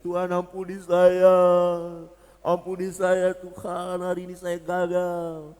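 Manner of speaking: mock weeping. Failing believer begging God's forgiveness, in an acted tearful wail. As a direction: act out a tearful, drawn-out prayer. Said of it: "kita hanya menangis".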